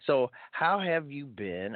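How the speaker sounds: slow, high Scottish lilt; Scottish accent. Pretend. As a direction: put on a playful Scottish accent. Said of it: "I'm gonna use my Scottish accent".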